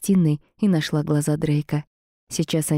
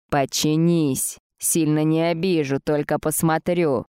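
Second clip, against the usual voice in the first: insistent hiss. Acted. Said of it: "настойчиво прошипел демон".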